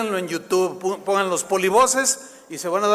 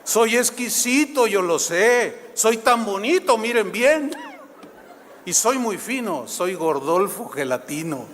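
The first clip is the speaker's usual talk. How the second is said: mock vain comic; slower than usual. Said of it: "me acordé de Gordolfo Gelatino".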